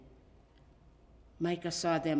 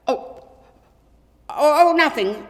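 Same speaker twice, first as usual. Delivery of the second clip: evasive; 10 semitones higher, 18 dB louder than usual. A narrator's reading. Boy dodging his dad's question.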